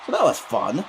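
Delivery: high-pitched mock enthusiasm; sarcastic. Real, not acted. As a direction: feign that it was a good time. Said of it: "That's sarcasm, by the way".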